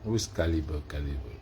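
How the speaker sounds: low-pitched, soft question; subdued, falling query; low aside. Real, not acted. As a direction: say it down low, as if to oneself. Same query said low to self.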